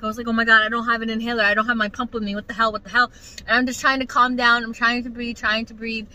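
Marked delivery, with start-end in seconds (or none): 0.3-3.1 fast, tumbling mock panic; hurried, lightly panicked; retold panic. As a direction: rattle it off as worry mounts. Retold panic during asthma attack.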